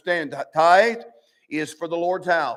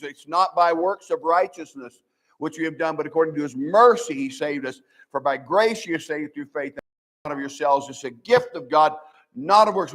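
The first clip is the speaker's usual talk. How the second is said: key words "mercy" and "grace" leaned on; emphatic scripture quoting. Shown as a demonstration. Preacher quoting on salvation by grace, emphasizing each key word. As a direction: punch "mercy", "grace" and "gift". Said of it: "We emphasize every one of those words".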